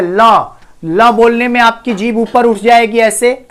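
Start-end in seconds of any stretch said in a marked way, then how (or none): 0.0-0.2 ल voiced alone, tongue lifted for 'la'; demonstrated L sound. Shown as a demonstration. Teacher shows where the tongue goes, demonstrated ल sound. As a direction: say ल by itself to show the articulation. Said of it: "ल जब बोलते हो तो क्या होता है".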